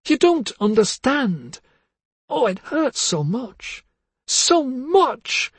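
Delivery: high, trembling, near-tearful lament; anguished wailing. Acted. Wife wailing at her husband, anguished and high. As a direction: pour out the hurt, voice climbing.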